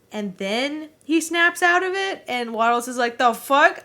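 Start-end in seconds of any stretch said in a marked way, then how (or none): 3.2-3.8 louder, higher retold outburst; indignant disbelief, acted; mock shock. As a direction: imitate a stunned bystander. Quoted shocked bystander calling police.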